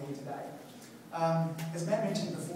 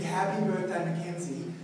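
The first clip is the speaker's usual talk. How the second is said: louder birthday call, punch on Happy; big cheer; 3 semitones higher, 4 dB louder than usual. Shown as a demonstration. Speaker showing the crowd the big birthday shout, loud. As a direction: call it out big like you want the crowd to match it. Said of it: "if I get a big".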